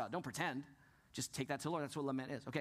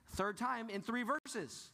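slow, breathy stage whisper; 5 semitones higher, much slower than usual. Real, not acted. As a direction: hush it out slowly like a secret. Pastor whispers answer to congregation.

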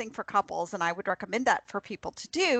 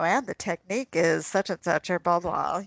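sports announcer; 4 semitones lower than usual. Retold or imitated. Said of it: "this, uh, sports announcer".

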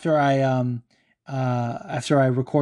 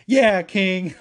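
bursting, higher and louder hype; hyping up a fighter friend, excited cheer; 6 semitones higher, 4 dB louder than usual. Retold or imitated. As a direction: gas him up like a fan on the timeline. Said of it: "like my normal shit that you guys see on the timeline".

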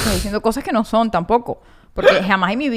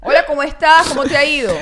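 a louder, pushier hello; mock loud greeting; 3 semitones higher, 4 dB louder than usual. Shown as a demonstration. Mother showing how she greets the boy, loud. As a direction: greet him with a loud bark. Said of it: "¿No?".

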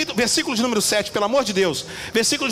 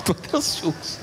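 laughing; 4 dB quieter than usual. Real, not acted. Speaks through laughter.

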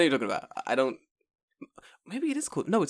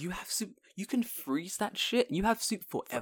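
hushed conspiratorial whisper; whispering about frozen soup; 9 semitones higher than usual. Acted. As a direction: lean in and whisper it like a secret.

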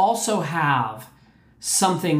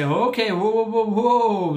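higher, slowing whoa whoa whoa; alarmed whoa; 3 semitones higher than usual. Pretend. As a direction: pull up short in mock alarm. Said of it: "surrender and say".

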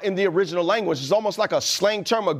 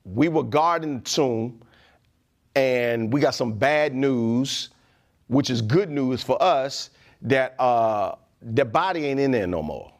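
lower, slow, nervous report; sheepish guards; 6 semitones lower, slower than usual. Retold or imitated. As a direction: confess it like scared guards. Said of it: "They like".

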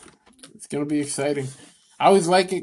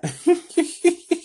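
incredulous laugh. Real, not acted. Laughs in disbelief.

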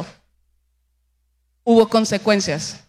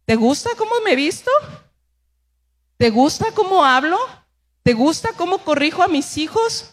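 questioning; 4 semitones higher than usual. Retold or imitated. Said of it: "Yo te voy a preguntar".

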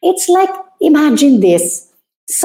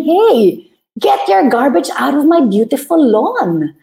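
a mild, firm scolding of a trespasser; a touch of indignant command; firm telling-off; 3 semitones higher than usual. Acted. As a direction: stand your ground and order them out. Telling off garbage dumper.

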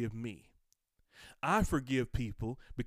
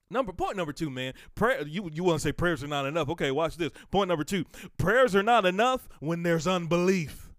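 fiery preaching; 6 semitones higher, 7 dB louder than usual. Acted. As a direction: declare it from the pulpit. Preaching at full force.

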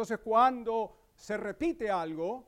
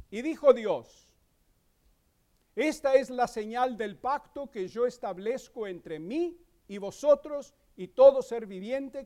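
raised, measured Bible reading voice; scripture reading. Acted. Pastor reading Genesis to congregation, solemn and raised. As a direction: read God's covenant words with solemn weight.

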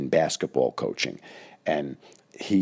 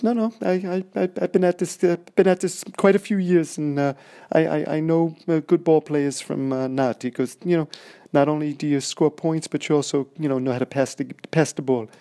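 very high and loud odd coach voice; high-pitched strange voice; 10 semitones higher, 4 dB louder than usual. Retold or imitated. Coach praising the player but mocking his team, squeaky high voice. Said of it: "And that's how he spoke".

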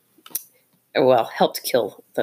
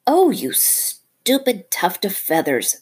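angry; 5 semitones higher, slower than usual. Acted. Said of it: "said Rikki Tikki angrily".

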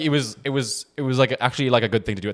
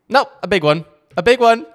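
teasing voice; 7 semitones higher than usual. Acted. Teasing friend into shot.

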